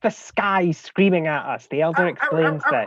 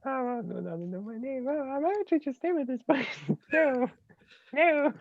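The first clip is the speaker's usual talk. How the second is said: laughing; 9 semitones higher, 8 dB quieter than usual. Real, not acted. Laughing at own voice.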